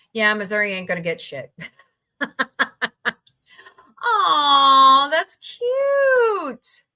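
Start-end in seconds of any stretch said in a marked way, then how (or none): 4.0-6.8 high cooing aww. Real, not acted. Gushing over a collectible.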